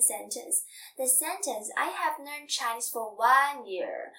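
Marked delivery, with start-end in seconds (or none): 1.8-4.1 "I have learned Chinese for one year," said slowly, pitch settling down at "year"; falling statement tune. Shown as a demonstration. Teacher showing learners a statement, slow falling tune. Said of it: "we use falling intonation".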